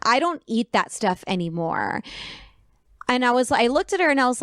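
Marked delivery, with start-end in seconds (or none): 0.0-2.0 low, slow mock-snooty imitation; mocking vegan voice. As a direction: mimic a patronizing vegan, dragging the words lower. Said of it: "said it to me in this voice".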